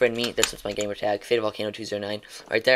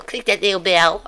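"Click that little bell" lifted higher, rising on "that"; sing-song outro catchphrase; 6 semitones higher, 4 dB louder than usual. Shown as a demonstration. Streamer signing off to viewers, sing-song catchphrase voice. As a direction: sell the catchphrase with a bright lilt. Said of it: "I'm gonna say it like that every time".

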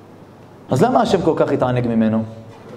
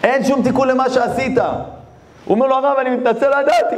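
crying apology; 7 semitones higher than usual. Acted. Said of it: "הוא ממש בוכה".

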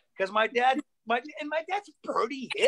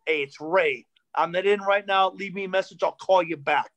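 a lower, stiff, angry-sounding message; stiff angry dad; 3 semitones lower than usual. Retold or imitated. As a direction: read it like a nervous, gruff dad. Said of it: "this is my dad's outgoing message".

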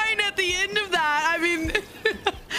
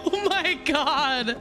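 laughing; 3 semitones higher, slower than usual. Real, not acted. Laughing at a game character.

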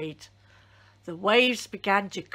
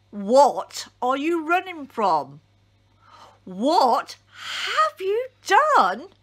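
louder, higher, pressing questions; frightened sailors; 5 semitones higher, 5 dB louder than usual. A narrator's reading. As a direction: demand answers in a panic. Frightened sailors interrogating Jonah.

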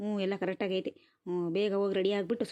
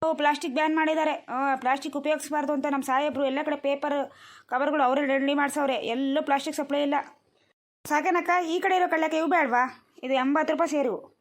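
lightly raised seller's voice; brisk street vendor; 4 semitones higher, 5 dB louder than usual. Acted. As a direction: push the wares on a hesitant customer. Plays fair vendor explaining and selling. (ಗಿರಾಕಿಗೆ ಮಾರುವ ವ್ಯಾಪಾರಿಯ ದನಿ)

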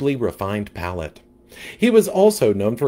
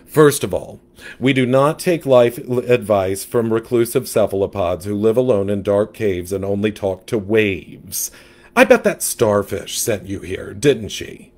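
louder, sassy gossip; sassy catfish; 3 dB louder than usual. Acted. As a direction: diva fish with attitude.

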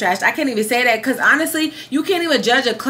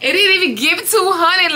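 higher, laughing disbelief on two; incredulous laughing repeat; 7 semitones higher than usual. Real, not acted. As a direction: repeat it with a laugh, not believing it. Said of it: "that is so freaking sad".

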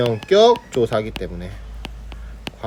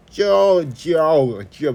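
exaggerated American-style jji-yeo glide; drawn-out mock American vowels; mock American accent; 3 semitones higher, much slower than usual. Shown as a demonstration. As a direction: mimic an American over-pronouncing the Korean diphthong. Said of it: "미국 사람처럼 말이에요".

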